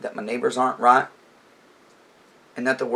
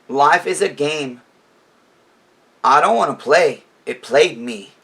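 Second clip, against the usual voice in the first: louder, spoken lyric line read with force; reciting lyrics firmly; 4 dB louder than usual. Retold or imitated. Vlogger reading song lyrics to viewers, forceful. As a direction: declaim the lyric out loud. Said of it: "I'm gonna tell you what he says first".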